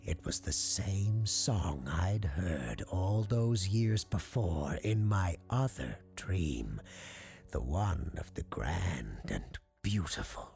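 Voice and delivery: lightly voiced showman, halting dramatically between phrases; awed circus owner. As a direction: linger reverently on each wonder. Circus owner continues his tale.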